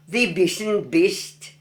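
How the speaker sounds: broad, drawn-out Black Country phrase; Black Country dialect. Shown as a demonstration. Local teaching an old saying in Black Country dialect. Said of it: "You aren't, are you?".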